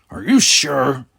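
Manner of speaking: whispered doubtful question; hushed, uneasy whisper. A narrator's reading. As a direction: ask it under your breath. Tegras doubts Talos.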